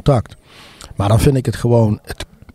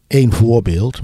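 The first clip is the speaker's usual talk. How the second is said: talking with a cold, blocked nose; stuffed-up nose from a cold; stuffy nose. Real, not acted. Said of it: "sorry, ik ben verkouden".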